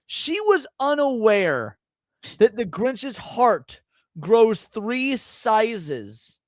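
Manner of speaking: high, emphatic, drawn-out disbelief; mock indignation. Real, not acted. Streamer exposing partner's Grinch ignorance, mock-indignant. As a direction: announce it with exaggerated indignation, phrase by phrase.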